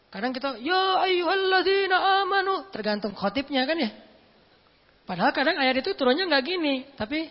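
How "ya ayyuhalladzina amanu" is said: high, loud, slow declaiming; shouted recitation. Shown as a demonstration. Preacher mocking a shouting khatib, loud and slow. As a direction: stretch and belt the verse out. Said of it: "Bukan dengan suara teriak".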